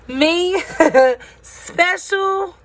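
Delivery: high incredulous laughing question; laughing in disbelief. A narrator's reading. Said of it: "Punchinello laughed".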